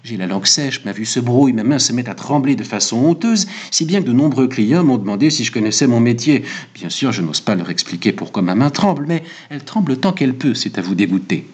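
mild, fretful confession; distressed barber. Acted. Barber tells his client of his trembling hand, mildly distressed.

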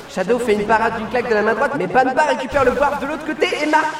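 lively play-by-play calling the match; excited sports commentary. Acted. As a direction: call the action like a live commentator.

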